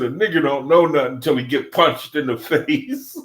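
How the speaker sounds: can't hold it together, laugh out the punchline; laughing through the quote. Retold or imitated. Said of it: "I gotta laugh".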